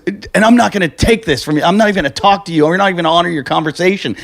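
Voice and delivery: mock huffy rebuff, rushing on; indignant refusal. MC refusing to talk to the caller, imitated indignation. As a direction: act out an offended MC cutting someone off. Retold MC refusing to continue call.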